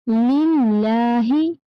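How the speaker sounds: लिल्लाही with the ला held two beats, slow; stretched vowel. Shown as a demonstration. Teacher models a long ला for children. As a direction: draw out the ला in लिल्लाही. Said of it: "दो हरकत खींचेंगे".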